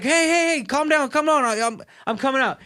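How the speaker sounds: high-pitched imitation of wife calming him; placating wife.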